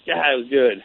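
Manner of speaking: a warm laugh breaks through the words. Real, not acted. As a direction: laugh while remembering how good it tasted. Fond memory of cold water.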